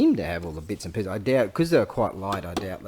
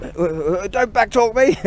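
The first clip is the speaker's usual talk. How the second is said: much higher, much louder barked order; drill sergeant yell; 12 semitones higher, 9 dB louder than usual. Pretend. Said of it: "Drill Sergeant".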